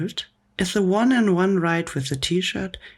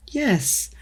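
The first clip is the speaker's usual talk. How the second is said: yelled; 6 semitones higher than usual. A narrator's reading. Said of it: "yelled Missus Ribble".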